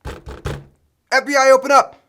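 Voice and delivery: slow booming FBI agent shout; bang-on-the-door agent voice; FBI raid. Pretend.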